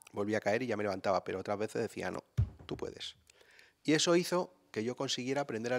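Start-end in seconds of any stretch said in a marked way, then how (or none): 2.1-3.2 soft whispered you can do it; mother quietly urging her fallen son on; whispered encouragement. Retold or imitated. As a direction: breathe the words of support.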